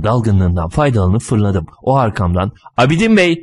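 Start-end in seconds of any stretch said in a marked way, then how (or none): 2.8-3.4 high-pitched call from behind. A narrator's reading. Man calls after a runner he takes for Abidin, calling out. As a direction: hail someone running away. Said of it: "diye bağırırken".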